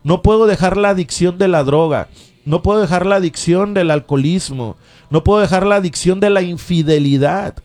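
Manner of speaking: fervent radio sermon, rising and falling; preaching. Acted. Radio preacher urging listeners to faith, fervent preaching.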